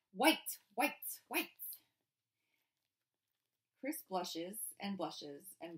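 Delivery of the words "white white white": far off, repeated and fading; distant echo. Acted. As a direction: call it from across the patio. Echoing Mama's shout.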